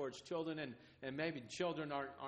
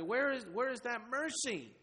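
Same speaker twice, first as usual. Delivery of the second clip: higher, pleading question; mock plea; 8 semitones higher than usual. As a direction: voice a doubter asking for mercy. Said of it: "Somebody might say".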